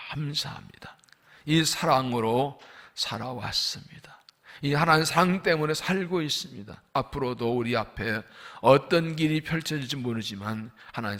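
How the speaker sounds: earnest prayer with whispered and loud swells; fervent closing prayer; pastor's prayer. Acted. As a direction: pray aloud for the congregation.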